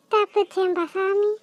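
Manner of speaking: hushed, slow sigh of relief; relieved aside. Acted. Girl relieved she escaped blame, muttered aside. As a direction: say it softly to yourself, drawn out.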